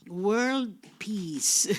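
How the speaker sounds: low, drawn-out pageant-style answer; mock lofty answer. Preacher mimicking own interview answer, mock lofty and low. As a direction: give a grand stock answer, tongue in cheek.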